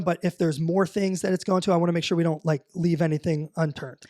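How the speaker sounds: talking around ice in mouth; mouth full. Real, not acted. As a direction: speak with ice on your tongue. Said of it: "Sorry, I have ice in my mouth".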